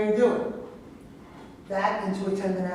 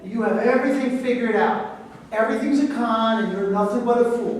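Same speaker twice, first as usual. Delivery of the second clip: angry; 3 semitones higher, 5 dB louder than usual. Acted. Reporter snaps back.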